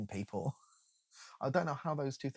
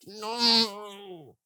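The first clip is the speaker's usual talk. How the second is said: high, slow mock-earnest plea; sarcastic higher voice, stretched slowly; mocking quote; 8 semitones higher, 3 dB louder, much slower than usual. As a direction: drag it out like a know-it-all. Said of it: "and they went".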